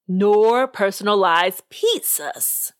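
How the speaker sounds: slow, deliberate judge laying down the rule; a lightly voiced, stern judge emphasizing. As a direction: spell it out slowly to the squabbling teams. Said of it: "he emphasized".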